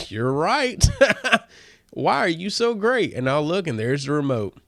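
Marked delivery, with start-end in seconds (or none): 0.1-3.1 laughing, high and loud praise for the AI; mock gushing praise. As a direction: gush at the gadget through a laugh.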